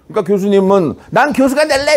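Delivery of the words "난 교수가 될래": higher-pitched model declaration; raised, emphatic demo cry; demonstrated shout. Shown as a demonstration. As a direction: call it out as a pledge. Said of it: "이렇게 소리치란 말이야".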